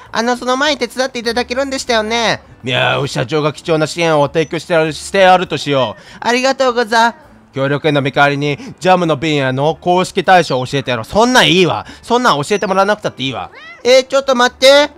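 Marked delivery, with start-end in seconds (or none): 2.6-11.0 lower, self-satisfied mayor; pompous mayor voice. Acted. Streamer voices the mayor granting a reward, smug. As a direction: hand out a worthless reward grandly.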